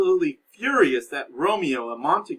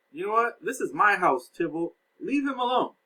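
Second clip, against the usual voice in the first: higher and insistent, putting his foot down; firmer Capulet; 7 semitones higher than usual. Retold or imitated. Capulet shutting Tybalt down, insistent and raised. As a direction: lay down the law in your own house. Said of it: "So Lord Capulet has said".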